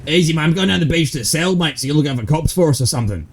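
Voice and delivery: Aussie bloke. Acted. To his mate about the stuck item, a light Aussie bloke voice. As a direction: play a laid-back Aussie dealer. Roleplay character chatting in-game.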